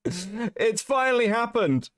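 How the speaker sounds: high, slow, grand announcement; hammed-up celebration; mock triumphant. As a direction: savour it like a big moment.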